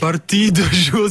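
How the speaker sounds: amateur Flemish-accented recital; attempted Flemish accent. Shown as a demonstration. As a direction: quote the verse in a badly faked Flemish accent. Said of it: "J'ai essayé de faire l'accent flamand".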